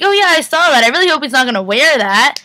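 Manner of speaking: high-pitched feigned nonchalance; overdone innocent chiming-in; playing it cool. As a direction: pretend you know nothing, a bit too loudly. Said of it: "Try to play it out all good".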